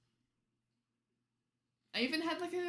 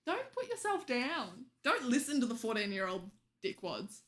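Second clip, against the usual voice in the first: reassuring. Real, not acted. Comforting a viewer.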